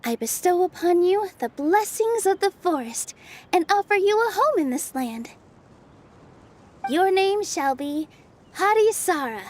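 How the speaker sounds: formal ceremonial blessing, unhurried; solemn blessing. Acted. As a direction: bestow it like a fairy's rite. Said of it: "What do you want to say to the new resident".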